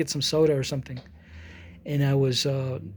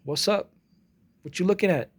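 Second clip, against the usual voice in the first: lightly imitated teenage tough talk, pitched up; high school challenger; 3 semitones higher than usual. Imitating a typical high school face-off on the street, mock challenge. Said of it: "the typical high school".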